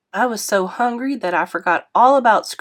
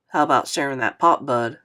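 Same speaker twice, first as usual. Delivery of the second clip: put-on a touch lower, friendly older man apologizing; lightly voiced kindly driver, a bit lower; 5 semitones lower than usual. Narrator voices Mister Lewis.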